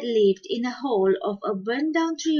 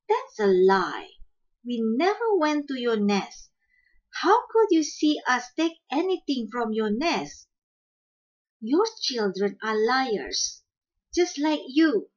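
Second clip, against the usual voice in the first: vehement denial; 3 semitones higher than usual. Acted. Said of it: "Mother Shrew denied vehemently".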